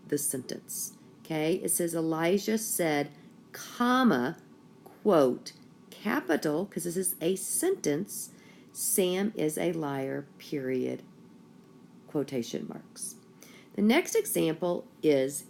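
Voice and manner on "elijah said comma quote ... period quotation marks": reading out every punctuation mark; dictating. Shown as a demonstration. Reading punctuation aloud to class.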